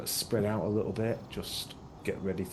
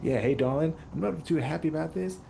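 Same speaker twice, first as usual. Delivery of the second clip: put-on Southern hick accent; 5 semitones higher than usual. Bell tells Dax she's unhappy, Southern hick accent. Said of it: "It's kind of like Southern, kind of Hicks".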